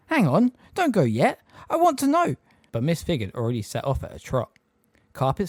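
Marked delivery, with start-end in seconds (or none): 0.1-2.4 urgent plea. A narrator's reading. Harry pleading after her.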